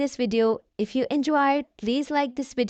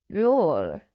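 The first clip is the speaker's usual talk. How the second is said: low pretend dinosaur roar; a child's mock dinosaur roar; 7 semitones lower than usual. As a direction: roar like a dinosaur, pitched well down. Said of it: "says George".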